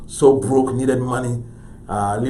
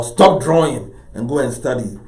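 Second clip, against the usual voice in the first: imitated parent, mildly stern and louder; scolding parent; 5 dB louder than usual. Parents to child playing soccer, lightly imitated scolding. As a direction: order it firmly, like a parent. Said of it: "your parents would say".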